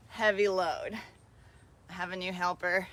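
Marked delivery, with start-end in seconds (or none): 0.0-1.0 laughing through the words; slow, laughing it out. Real, not acted. Laughs mid-sentence while coaching.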